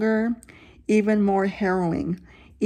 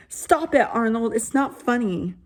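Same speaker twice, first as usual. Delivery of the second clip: shouted; 2 semitones higher than usual. Acted. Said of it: "I shouted".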